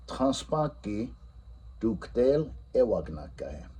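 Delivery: "Transpaki" drawn out, "tuktel" stressed; teacher quizzing in Lakota; slow quiz question. Shown as a demonstration. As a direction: ask the next one slowly. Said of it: "how about this one".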